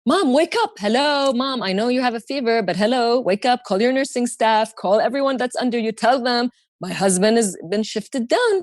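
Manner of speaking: high, insistent urging; frantic daughter to mom; urgent. Retold or imitated. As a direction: shake her awake with words.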